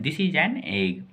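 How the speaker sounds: "This is an egg" slowly, each word apart; slow model reading. Shown as a demonstration. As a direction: read it out slowly for learners to copy. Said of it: "Hindi last में लिखेंगे". ("This is an egg" धीमे और साफ़)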